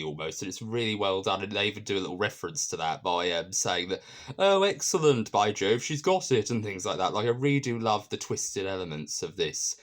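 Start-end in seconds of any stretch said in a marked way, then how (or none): 4.4-6.5 posh exclamation. Retold or imitated. Quoting a posh tutor character.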